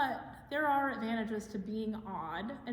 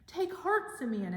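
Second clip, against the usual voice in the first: voice calling out; 2 semitones higher, 4 dB louder than usual. Acted. A divine voice calls out to Simeon, gently lifted call. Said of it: "he heard a voice call out to him".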